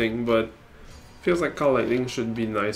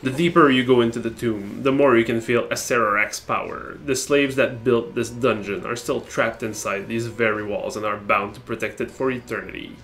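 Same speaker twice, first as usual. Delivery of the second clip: storytelling voice; 2 semitones lower than usual. Shown as a demonstration. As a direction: read it like a dark fireside tale. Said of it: "I'm gonna use my storytelling voice".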